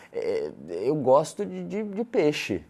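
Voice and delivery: halting, high questioning lilt; always in doubt. Shown as a demonstration. Coach mimicking a man afraid to admit a preference, hesitant and doubtful. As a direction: stammer it out unsure, seeking approval. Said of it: "parece que tá sempre em dúvida".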